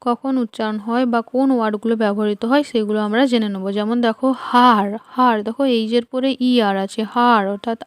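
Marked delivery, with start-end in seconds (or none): 4.5-5.4 "হার" said with an open "aa" vowel, haar; "হার" repeated as a teaching word with long "aa". Shown as a demonstration. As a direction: model "হার" firmly as haar. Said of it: "ই এর আ হিসেবে".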